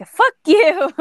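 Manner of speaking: high, loud playful "Fuck you"; mock yell. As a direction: throw it out jokingly, pitched high. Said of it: "And I was like".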